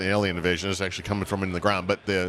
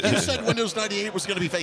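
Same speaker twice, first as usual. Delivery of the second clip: cartoon voice; 11 semitones higher than usual. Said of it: "He's like".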